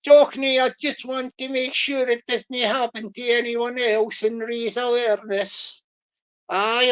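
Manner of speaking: put-on quoting Lambie in a light Fife Scots accent; mild Fife Scots accent on a quote. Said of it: "I'll do my Fife voice".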